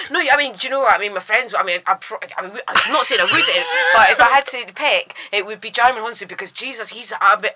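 flustered false starts and backtracking; nervous babbling. Retold or imitated. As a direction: stumble through a retold awkward excuse. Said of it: "the more I was getting nervous".

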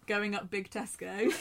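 laughing quote. Retold or imitated. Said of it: "as Caitlin Moran would say".

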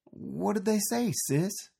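high, eager question; bursting to know; excitedly. A narrator's reading. Art eagerly asking his sister about her letters. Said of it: "asked Art excitedly".

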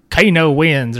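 half-hearted Australian announcer line; loose, unconvincing Australian accent; attempted Australian accent. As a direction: have a rough go at an Australian accent. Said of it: "I was trying to do Australian".

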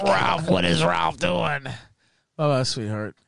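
slow mock-puzzled drawl; mocking the haters. Mimicking haters baffled by Ralph, slow and mocking. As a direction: drag it out like a confused hater. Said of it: "they're like".

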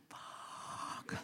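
whispered, drawn-out expletive; long hushed curse to yourself; inward curse. Retold or imitated. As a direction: breathe the swear word out silently, as a panicked thought.

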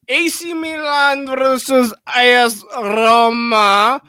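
high, loud, slow big-match announcer call; announcer shout. Pretend. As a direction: boom it out like a stadium announcer. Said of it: "I hated all of that".

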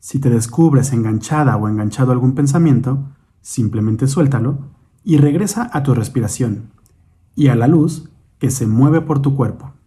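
measured meditation guide, long pauses between instructions; guided meditation. Acted. Guide leads listeners in breathing and imagining light, guided meditation. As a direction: guide the listener unhurriedly through breath and imagery.

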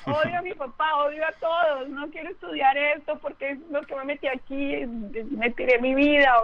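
mock angry rant. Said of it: "Y yo dije".

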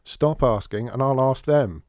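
loud, exasperated call; shouting back. A narrator's reading. Krebs shouting at his nagging mother, loud. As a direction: bark it back at her.

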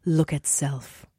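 slow, drawn-out toddler impression; lightly voiced little child, stretching each word; imitating crying toddler. Mother mimics her crying daughter in her arms, slow toddler voice. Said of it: "she was crying".

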